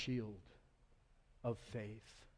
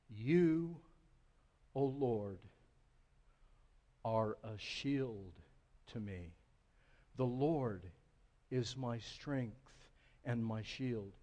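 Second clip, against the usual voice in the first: scripture reading; 3 semitones lower than usual. Acted. Reads scripture slowly, reverently.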